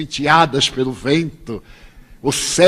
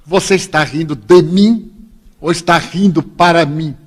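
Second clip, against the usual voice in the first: mild mock yell; imitated shout, strongest on the opening call; retold shout; 3 dB louder than usual. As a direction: challenge someone from across the room. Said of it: "E ele gritou de lá".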